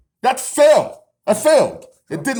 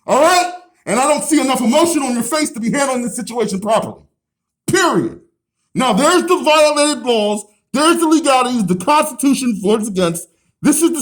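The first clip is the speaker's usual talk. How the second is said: yelling through the glass; 2 semitones higher, 3 dB louder than usual. Real, not acted. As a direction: raise your voice to carry through glass. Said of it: "I gotta yell louder so you can be heard".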